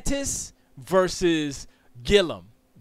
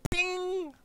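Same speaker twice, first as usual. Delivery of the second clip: high ding sound; 4 dB quieter than usual. Pretend. Mock game sound.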